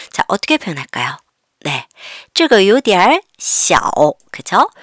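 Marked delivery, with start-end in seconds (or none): 2.3-3.8 very slow, deliberate Chinese; teacher drilling slowly; slow model reading. Shown as a demonstration. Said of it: "teacher models sentence slowly".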